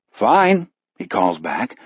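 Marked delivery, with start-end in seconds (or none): 0.1-0.7 high, falsely cheerful answer; forced hearty. A narrator's reading. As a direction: pump fake heartiness into it. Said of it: "right degree of heartiness".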